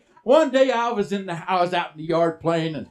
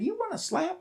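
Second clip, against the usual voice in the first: mock stern threat; 11 semitones higher, 7 dB quieter than usual. Mama threatens son.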